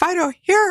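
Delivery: very high, quick, short staccato call. Showing how to call a dog when a car is coming: really high-pitched call. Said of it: "really high pitched".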